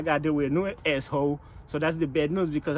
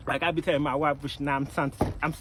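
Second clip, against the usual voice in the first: ordinary talk, nothing marked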